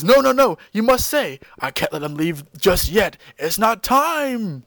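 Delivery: lightly voiced pleading old man; voiced Paragus. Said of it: "Paragus says".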